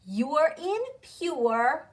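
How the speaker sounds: "You're in pure" drawn out slowly, sound by sound; sound drill. Shown as a demonstration. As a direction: say YOO-ER as in PURE for learners to repeat. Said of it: "Say that with me".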